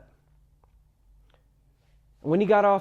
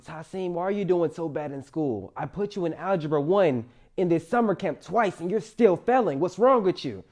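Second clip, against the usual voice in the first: building exasperated mom rant, getting louder and higher; scolding mother; 4 semitones higher, 5 dB louder than usual. Retold or imitated. Mom to son over failing algebra, exasperated scolding. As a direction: imitate a mother laying into her son.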